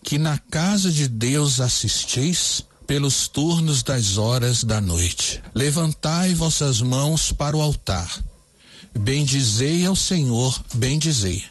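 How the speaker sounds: slow, deliberate lyric reading; slow, careful reading of the new lyric. Shown as a demonstration. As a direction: read the verses out for dictation. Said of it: "Anote aí então como ficou essa letra".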